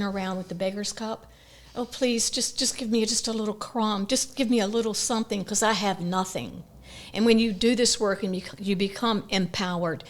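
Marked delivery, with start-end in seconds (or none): 1.7-6.6 lightly voiced beggar, softer; a hint of meek begging for scraps; pleading beggar. Beggar with a cup asking for a crumb, lightly acted pleading. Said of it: "just like the little beggar".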